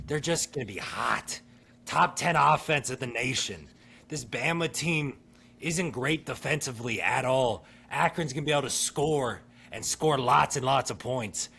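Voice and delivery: impassioned pitch for an underdog; emotional hype. Real, not acted. Host championing Akron to co-hosts, emotional hype. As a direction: sell your team with real feeling. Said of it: "A lot of emotion out of you".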